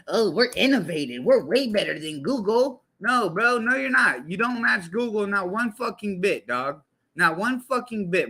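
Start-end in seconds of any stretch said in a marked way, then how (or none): 0.1-2.8 mocking Microsoft. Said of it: "Like, bruh".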